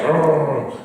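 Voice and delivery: imitating an angry "argh"; imitated grunt. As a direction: act out a wordless grumble of protest. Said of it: "he's like".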